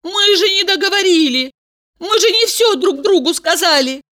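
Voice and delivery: put-on high, pleading girl's voice; frantic young woman; young woman, desperate. A narrator's reading. Valeria's voiced lines.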